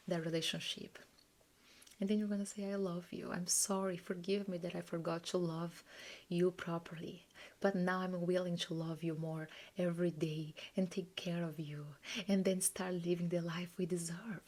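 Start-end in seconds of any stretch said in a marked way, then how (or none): 2.7-14.4 a hushed loving promise to yourself; tender whisper. Shown as a demonstration. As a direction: speak gently to your inner child. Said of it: "You're gonna talk like that to yourself".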